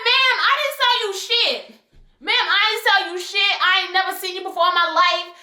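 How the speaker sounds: rapid-fire defensive retort; straight-up denial. Retold or imitated. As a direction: set her straight, fast and firm. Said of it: "I told her straight up".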